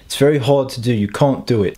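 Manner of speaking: bad South African accent attempt; badly faked South African accent. Shown as a demonstration. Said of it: "That was my shitty South African accent attempt".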